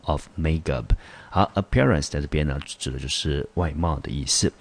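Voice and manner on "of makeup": the most important factor, read slowly; slow example read. Shown as a demonstration. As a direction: model the sentence at a careful pace. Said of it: "我们接下来看第二个例句". (放慢语速朗读例句)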